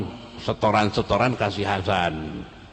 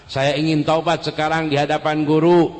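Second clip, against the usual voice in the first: pleading repentance; 7 semitones higher, 5 dB louder than usual. Acted. Hasan repents before teacher.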